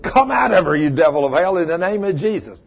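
commanding rebuke. Retold or imitated. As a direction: order the devil out with authority. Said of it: "I walked up and said".

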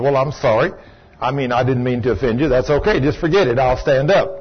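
lightly voiced conciliatory woman; retold apology. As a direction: imitate someone meekly backing down. Retold woman apologizes to angry man.

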